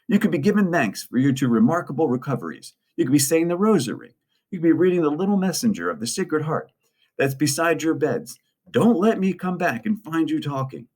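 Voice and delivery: high-pitched scolding nun; high, strict voice of a nun in charge; stern Sister Rita. A narrator's reading. Nun catching two children chatting between rooms, stern and high. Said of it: "and then Sister Rita's voice".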